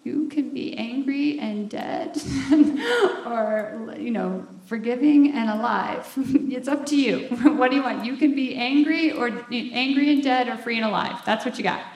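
loud, emphatic mock lecture with laughs breaking in; blunt retort. Telling people what they are choosing, loud and emphatic. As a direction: lay it down hard, half laughing. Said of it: "And I'm like".

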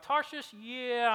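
high, mock-disbelieving echo; incredulous Jonah. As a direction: scoff at the idea. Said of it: "And he's like".

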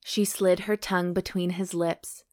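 measured audiobook-style reading; romance narration. A narrator's reading. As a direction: read the love scene in short, unhurried phrases. Reads romance novel aloud.

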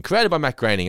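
created punched high and loud; stress on CREATED. Shown as a demonstration. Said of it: "Now, The Simpsons was created by Matt Groening".

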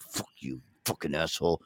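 hushed cursing under a mask; whispering. Shown as a demonstration. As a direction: whisper the insult behind a mask.

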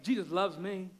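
lightly imitating a girl's proud spoken Jesus loves me; spoken with swagger. Dad retelling his daughter's car declaration, mild spoken swagger. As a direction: say it like a boast, not a song. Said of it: "again, with some swagger".

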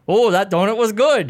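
dreamy donut-loving receptionist voice; Lucy voice. Retold or imitated. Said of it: "And she's like".

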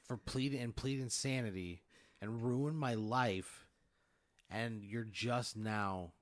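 aggrieved, drawn-out accusation; bitter outburst. Acted. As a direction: throw the wasted years back at him, bitterly. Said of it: "I'd be the most bitter person".

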